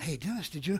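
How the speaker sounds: very quiet, hushed enemy voice. Role-playing the enemy whispering to a man: voice of the enemy. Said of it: "This is the enemy speaking. That's that voice".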